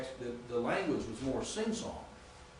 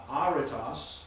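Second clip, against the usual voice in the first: "aritas" with its accented syllable brought out; emphasis on accented syllable; slower than usual. Shown as a demonstration. Teacher showing where the accent falls, emphasis on accented syllable. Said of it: "see where you put the emphasis".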